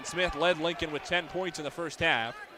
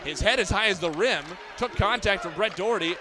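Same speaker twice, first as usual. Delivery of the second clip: excited layup call; 3 semitones higher than usual. Real, not acted. Announcer calling Jalen Smith's finger roll to listeners, lifted and excited.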